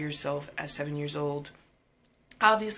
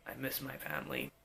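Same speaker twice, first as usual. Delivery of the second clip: sad little whimper; 3 semitones lower, 12 dB quieter than usual. Retold or imitated. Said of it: "I was just like".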